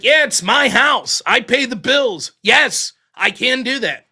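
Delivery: slow emphatic retort; firm retold insistence. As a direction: spell it out: my house, my rules.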